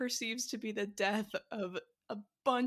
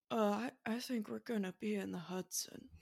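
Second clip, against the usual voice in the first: lightly imitated soft, calm movie pilot; softly and hesitantly, a mild calm-actor impression; Tom Hanks as Sully; 4 dB quieter than usual. Host imitates movie Sully's Hudson line, soft and calm. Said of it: "a much softer voice in the movie".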